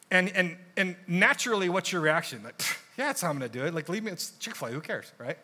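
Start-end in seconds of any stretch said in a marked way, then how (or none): 2.6-5.4 a scoffing, can't-be-bothered reply; dismissive scoff. Retold or imitated. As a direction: brush it off with a pfft. Imagined dismissive retort at work.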